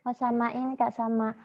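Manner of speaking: choppy breaking-up call audio; corrupted glitchy audio. Real, not acted. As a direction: voice cutting in and out. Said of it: "Kayaknya putus-putus".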